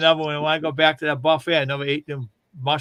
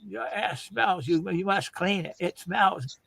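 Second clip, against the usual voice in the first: a hint of the restaurant owner, raised and softer; lightly voiced owner scolding a customer; 4 semitones higher, 3 dB quieter, slower than usual. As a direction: owner telling off a smelly diner, mildly mimicked. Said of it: "the owner come over and he goes".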